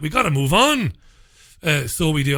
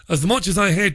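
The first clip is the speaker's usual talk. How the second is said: a weak attempt at a Scottish accent; lightly put-on Scottish accent; bad Scottish accent; 3 semitones higher, faster than usual. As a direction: read the tweet in a poor mock Scottish accent. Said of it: "that's the worst Scottish accent you've ever heard".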